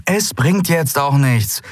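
slow, tired voice; tired resignation; weary. Acted. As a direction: say it without strength. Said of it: "sagte Endriel matt".

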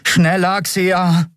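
high, urgent call; pressing, high-pitched order; urging. A narrator's reading. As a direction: press someone to hurry. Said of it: "drängte Miko".

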